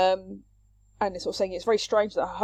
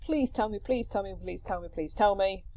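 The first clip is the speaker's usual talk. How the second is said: mildly pleading, repeated in a falling run; 4 dB quieter than usual. Acted. Nurse begging Phaedra to confess, pleading. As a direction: beg over and over, lightly acted. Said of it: "is pleading with her here".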